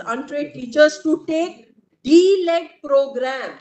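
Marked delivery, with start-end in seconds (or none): 2.0-3.5 slow, weighted "D-led program"; emphasis on D-led. Real, not acted. Counsel stresses "D-led program" to the judges, slowly. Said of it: "I'm emphasizing on the word D-led program".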